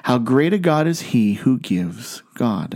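slow, deliberate run through "How great a God is he who gives God"; measured phrasing that holds "he who gives" before landing on "God"; careful enunciation and inflection. Shown as a demonstration. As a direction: pick through the tongue twister, setting off the final "God". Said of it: "just the right amount of nun-, enunciation and inflection".

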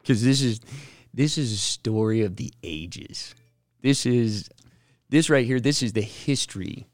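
hyping up the story with growing excitement; excited buildup. Real, not acted. Host opening the podcast topic, excitedly building it up. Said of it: "I cannot tell you how excited I am".

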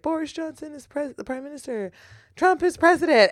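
high-pitched headline read in mock dismay; mock disbelief. Reading headline from imagined future paper.

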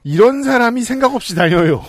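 이런 said high and loud up front; corrected phrasing. Shown as a demonstration. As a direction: stress 이런 at the start of 이런 사람이 생각 없이 다녀요. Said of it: "맞는 문장인 것 같고요".

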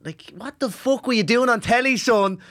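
high, pushed-up parent yelling at son; mock angry dad. Son mimicking his dad scolding him, high and loud.

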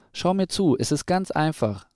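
put-on confident young owl calling from the air; brother calling out. A narrator's reading. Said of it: "rief ihr Bruder".

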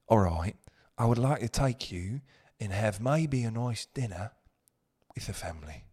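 a hint of a deep-voiced British gentleman; lightly voiced British accent, possibly Scottish; deep British man. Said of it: "deep tonality ... with the British".

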